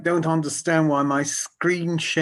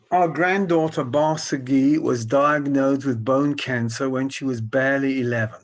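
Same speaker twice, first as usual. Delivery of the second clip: slow reading aloud; 3 dB louder than usual. Real, not acted. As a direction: read it out slowly for the audience. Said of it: "I'll read slowly".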